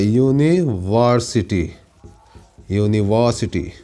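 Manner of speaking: यूनिवर्सिटी drawn out slowly, the first sound a clear y; slow model word. Shown as a demonstration. Teacher modelling the word for the class, slow. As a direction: lay out यूनिवर्सिटी slowly so the you-sound is heard. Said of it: "पहला अक्षर क्या है".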